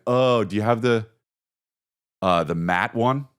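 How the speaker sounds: a hint of an eager dork voice; nerdy customer. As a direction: ask like a keen collector at the counter. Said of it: "I'm this guy".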